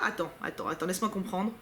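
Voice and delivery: puzzled and hushed; quiet puzzling. Real, not acted. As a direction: talk yourself through it under your breath. Puzzling over odd scarf.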